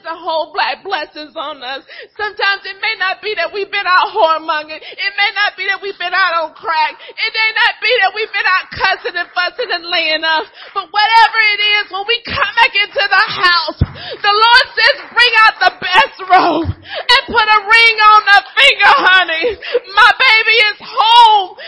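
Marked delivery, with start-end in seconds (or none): 2.2-19.5 loud, crying-edged preacher's climax; preaching at full force. Acted. Preacher shouting the Lord's welcome home to the congregation, tearful and loud. 19.9-21.5 loud, cracking cry of joy; tearful shout. Acted. The Lord crying out that his lost child is home, tearful shout.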